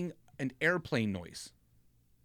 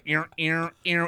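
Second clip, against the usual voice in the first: mock plane noise; 4 dB louder, slower than usual. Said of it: "I hit this plane".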